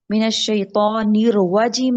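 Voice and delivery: الرجیم with a rounded w glide, nirwajeem; wrong w sound. Shown as a demonstration. Teacher imitating the students' mistaken الرجیم. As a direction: round the lips into a w before الرجیم. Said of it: "نہیں کرنا".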